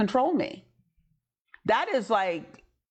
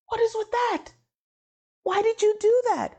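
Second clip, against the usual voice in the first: indignant. Retold or imitated. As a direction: demand an answer, indignant. Confronting God afterward.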